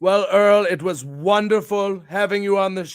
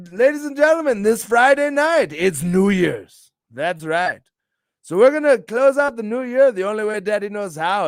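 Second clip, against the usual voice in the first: wrestling announcer; 5 dB louder than usual. Pretend. Host announces Friday night bookings to viewers, wrestling announcer voice.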